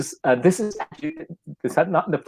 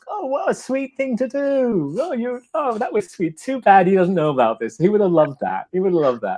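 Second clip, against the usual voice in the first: groggy sweet reply; 9 semitones higher than usual. Retold or imitated. Woken friend in England answering the call, sleepy and sweet. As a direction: croon it like a half-asleep friend touched by the gesture. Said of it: "they're groggy, and they go".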